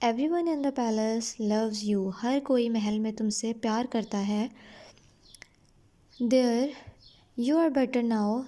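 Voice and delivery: slow story reading. A narrator's reading. Reads the king's comfort slowly.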